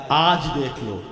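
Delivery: low, restrained preacher's tone; subdued low pitch, falling; low and grave. Real, not acted. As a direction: say it deep down in the voice, holding back. First, restrained take before repeat.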